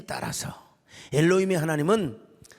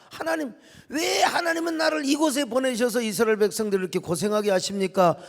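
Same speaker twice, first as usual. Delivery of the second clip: protesting; 2 semitones higher than usual. Acted. Moses challenging God over Israel's suffering, protesting. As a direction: demand an answer, voice raised. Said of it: "모세가 이렇게 항변하자".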